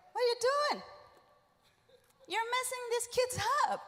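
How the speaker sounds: mock reprimand; retold scolding. Pastor scolds him in retelling.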